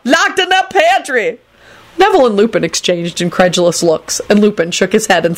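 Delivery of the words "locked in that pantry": high, slow bawling; indignant high wail. A narrator's reading. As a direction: bawl out each word, drawn out. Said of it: "Lucretia bawled out".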